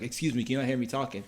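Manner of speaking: brisk attempt at a Yoruba accent; imitated Yoruba accent. Soldier challenging a boy playing his DS, imitated Yoruba accent. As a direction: put on a rough Yoruba accent, talking quickly. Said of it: "thick Yoruba accent".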